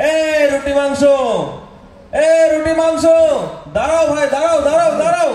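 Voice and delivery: loud call to the vendor. Acted. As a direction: shout after the seller to wait. Calling vendor to wait.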